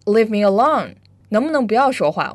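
an irritated demo of Leave me alone; angry example. Shown as a demonstration. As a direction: snap it out like you're fed up. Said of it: "比如生气的时候，我们会说".

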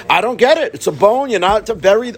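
high, insistent protest, rising at the ends; imitated baffled objection. Study partner insisting on the bury question, mock baffled. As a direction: mimic a friend who just cannot get it.

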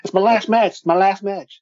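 loud, high wrestler-style wail; hammed-up old wrestler's lament; Terry Funk impression. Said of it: "Let's hear your Terry Funk".

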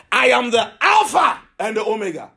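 emphatic divine proclamation, punching Alpha; great voice. Acted. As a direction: proclaim it like a trumpet. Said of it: "a great voice".

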